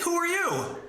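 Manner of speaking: mock frightened girlfriend, high. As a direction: squeak it in alarm. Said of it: "She's like".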